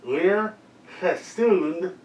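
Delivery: laughing through a mouth guard; slurred round a mouth guard, laughing; mouth guard speech. Real, not acted.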